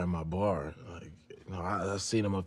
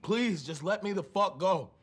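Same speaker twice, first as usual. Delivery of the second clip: desperate pleading. Acted. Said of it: "that was relatively convincing".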